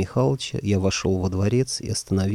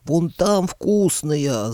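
shouted; 8 semitones higher, much slower than usual. Acted. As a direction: shout and point it out. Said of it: "заорал я".

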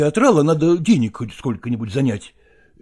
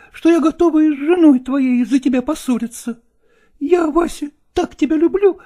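higher, louder passionate outburst; exclaiming in love; 12 semitones higher, 4 dB louder than usual. A narrator's reading. Nastina passionately declares love to Lagorsky, higher and louder. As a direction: pour out your love, building. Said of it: "воскликнула Настина".

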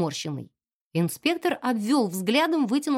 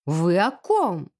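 indignant; 4 semitones lower, much slower than usual. Acted. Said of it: "возмутилась".

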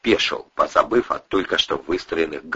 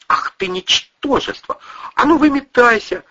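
furious woman. A narrator's reading. Кристина гонит кузена.

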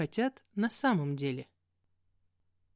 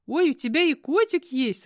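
higher and louder, full of delight; 7 semitones higher, 6 dB louder than usual. Acted. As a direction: squeal at the sight of the cat. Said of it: "раздалось радостное сзади". (радостный высокий возглас)

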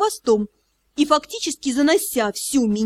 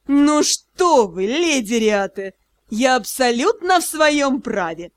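mocking; slower than usual. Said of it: "всё так же насмешливо".

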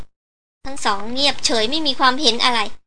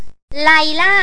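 mildly raised, drawn-out call; full-voice shout; 4 semitones higher, 4 dB louder, much slower than usual. A narrator's reading. Guide shouts up into the cave roof, a drawn-out shout. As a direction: call the name out long and higher. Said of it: "ตะโกนสุดเสียงของเขา".

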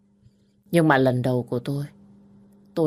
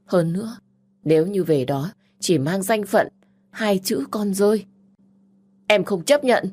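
rising, higher defiant protest; hurt pride flaring into defiance; indignant refusal; 5 semitones higher than usual. Acted. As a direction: refuse being a bastard child. Younger sister refuses.

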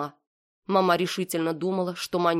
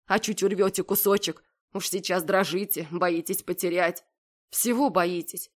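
usual speaking voice

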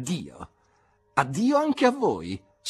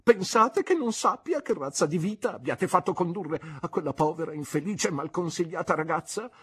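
aunt's indignant accusation; 6 semitones higher, 3 dB louder than usual. Acted. Aunt accuses Mr Marston.

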